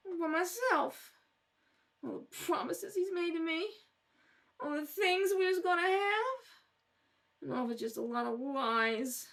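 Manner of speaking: teary, rambling complaint, trailing off; a drunk woman sobbing about the man who left her; weepy lament. Acted. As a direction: wallow in being left alone. Weeping over being abandoned.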